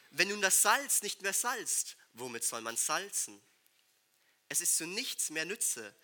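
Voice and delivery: solemn, measured scripture reading; bible reading. Acted. Preacher reading Matthew to the congregation. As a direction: read the verses with weight.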